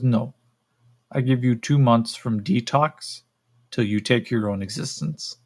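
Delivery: deliberate, slightly slowed verdict; lightly voiced creature giving a grim prognosis. Creature gives captive two months, grim creature voice.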